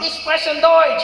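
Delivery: high, loud, drawn-out German; excited announcement. Retold or imitated. Son at dad's door showing off German, excited. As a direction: proudly belt out the big reveal. Retold proud announcement to father.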